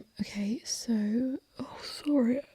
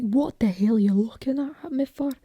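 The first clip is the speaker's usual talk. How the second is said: louder, confrontational Scottish; aggressive Scottish accent; 6 dB louder than usual. Shown as a demonstration. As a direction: pick a fight in a Scottish accent. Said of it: "speak like this and get a bit aggressive".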